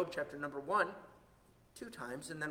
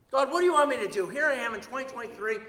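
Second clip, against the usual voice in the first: earnest prayer; 6 semitones higher, 8 dB louder than usual. Acted. Voicing a seeker praying.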